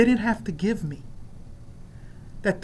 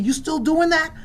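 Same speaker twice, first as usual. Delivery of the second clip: skeptical family question; 9 semitones higher, 5 dB louder than usual. Retold or imitated. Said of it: "They just ask me".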